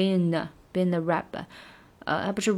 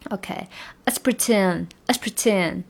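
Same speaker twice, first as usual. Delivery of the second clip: let's pretend with let's tossed off fast; quick let's; slower than usual. Shown as a demonstration. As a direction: skim let's, land on pretend. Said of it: "这个let's非常的不占节奏". (let's很快，不占节奏)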